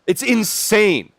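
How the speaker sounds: high, drawn-out "It's insane"; dramatic. Real, not acted. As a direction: stretch it out slowly. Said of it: "repeated exclamation".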